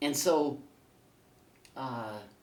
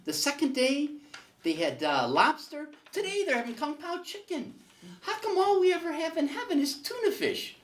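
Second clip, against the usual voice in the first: high, loud, building complaint; Harry complaining; 11 semitones higher, 5 dB louder than usual. Acted. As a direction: list each meal louder until the punchline.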